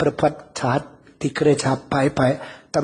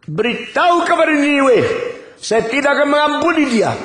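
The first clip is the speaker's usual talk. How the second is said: wrathful decree; 7 semitones higher than usual. Acted. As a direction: thunder the sentence of destruction. God pronounces doom on Nineveh.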